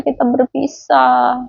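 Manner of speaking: put-on slow, mildly mournful child voice; sad child. Child Samsam telling the maid they will part, slow and mildly sad. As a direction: stretch it out like a sad little kid. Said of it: "Terus Samsam sedih".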